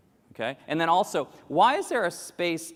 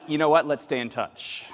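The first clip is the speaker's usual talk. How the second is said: mock evasive; 3 dB louder than usual. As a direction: back out politely. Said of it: "And then I'm like".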